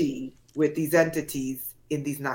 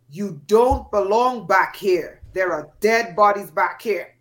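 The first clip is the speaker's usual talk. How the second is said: the forest voice coming back louder; louder warning; 4 dB louder than usual. Retold or imitated. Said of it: "but louder".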